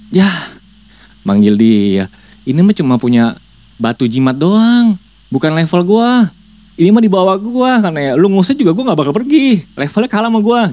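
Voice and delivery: high, scornful spirit sneering at the shaman; mocking demon voice. Demon scoffing at the shaman, high mocking voice. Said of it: "Setannya cuma bilang gini".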